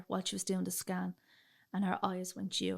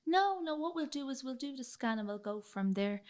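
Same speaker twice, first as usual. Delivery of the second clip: retold reassurance; 5 semitones higher than usual. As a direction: imitate a doctor quickly waving away a worry. Doctor brushing off her worry.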